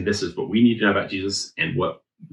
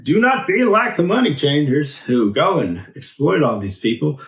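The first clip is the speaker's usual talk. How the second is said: Jesus preaching in streets; 5 semitones higher than usual. Retold or imitated. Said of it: "he's like".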